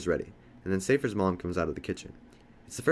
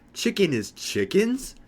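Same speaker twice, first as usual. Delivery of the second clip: high, drawn-out scream of disbelief; slow, loud shriek of horrified discovery, rising to a question; retold scream; 12 semitones higher, 5 dB louder, much slower than usual. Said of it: "I start screaming".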